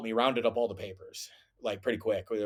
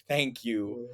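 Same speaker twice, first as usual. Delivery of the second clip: relieved thanks; 5 dB quieter than usual. Retold or imitated. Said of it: "she said it really relieved".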